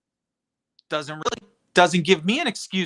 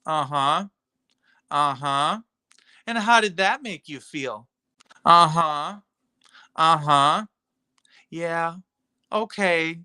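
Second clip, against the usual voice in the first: mock therapist; 3 semitones lower, slower than usual. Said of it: "sit and listen and go".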